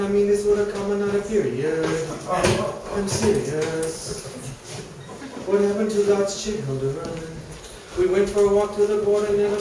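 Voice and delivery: a lightly preached comic prayer; mock sermon. Comic preacher praying to Mother Mary, lightly preached. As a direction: pray over the flock, half in jest.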